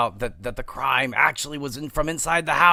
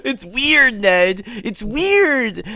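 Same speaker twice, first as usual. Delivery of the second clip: mock exasperation; 6 semitones higher, 3 dB louder, much slower than usual. Mocking Ned, high and loud.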